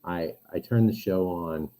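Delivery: sounds like in a pool; muffled, far-off mic sound. Real, not acted. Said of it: "Are you in the pool now?".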